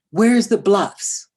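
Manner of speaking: loud, slow, drawn-out panicked question; a son on the phone, loud and desperate; lost son's plea. Retold or imitated. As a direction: call out like a teenager lost and scared.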